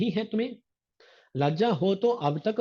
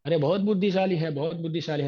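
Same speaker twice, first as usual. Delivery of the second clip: sarcastic; faster than usual. Retold or imitated. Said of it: "sarcastic बोलते हैं ना".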